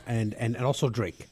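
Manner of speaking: speaking with a numb tongue; words thick from a burning tongue. Real, not acted. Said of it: "You can't, you can't speak".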